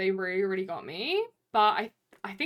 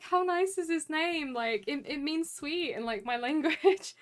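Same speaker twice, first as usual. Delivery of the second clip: imitating barista; 7 semitones higher than usual. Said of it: "being like".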